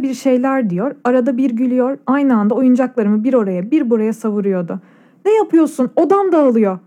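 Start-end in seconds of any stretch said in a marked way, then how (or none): 5.2-6.8 mild mock yell. A narrator's reading. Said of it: "diye bağırdım".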